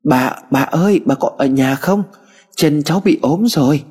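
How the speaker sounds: a mild call into the empty house. Acted. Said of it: "Em liền gọi lớn".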